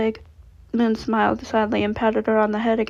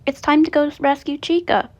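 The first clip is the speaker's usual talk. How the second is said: grumpy mumble; 5 semitones higher, 3 dB louder than usual. A narrator's reading. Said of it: "Chi-Chi mumbles grumpily".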